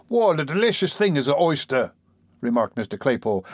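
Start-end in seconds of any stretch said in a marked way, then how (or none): 0.1-1.9 lightly voiced, higher tipsy youth; tipsy young man. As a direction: relish it as a slightly drunk lad. Voices tipsy Noah savouring oysters.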